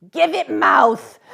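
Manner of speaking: gruff order. A narrator's reading. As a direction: convict barking at the boy. Convict orders louder.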